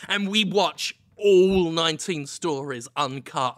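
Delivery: ordinary talk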